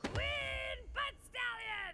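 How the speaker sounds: slow, high, drawn-out royal fanfare; grand announcement. A narrator's reading. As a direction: announce her like a herald. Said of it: "most goodest, majesticest ruler ever seen".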